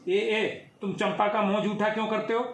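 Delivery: put-on high, fast child voice; little boy scolding the servant, high and fast; five-year-old boy. A narrator's reading. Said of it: "पाँच वर्षीय राम".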